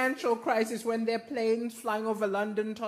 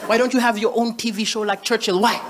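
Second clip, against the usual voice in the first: put-on nagging girlfriend; 3 semitones lower, 4 dB louder than usual. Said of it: "She always be".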